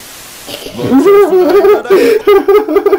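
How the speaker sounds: laughing hard, high and loud; loud high laughter. Real, not acted. Bursts out laughing.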